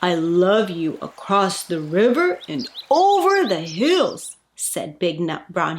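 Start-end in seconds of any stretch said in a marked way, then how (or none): 0.0-4.4 fond father hare, a touch fuller; gently proud big hare. Acted.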